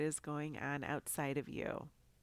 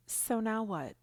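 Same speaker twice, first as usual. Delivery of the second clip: louder, punchy title call; emphatic hook; 6 semitones higher, 6 dB louder than usual. Shown as a demonstration. Show name as intro hook.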